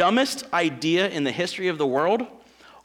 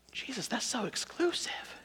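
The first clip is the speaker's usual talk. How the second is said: mock complaint; 7 semitones higher, 11 dB quieter than usual. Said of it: "mock objection".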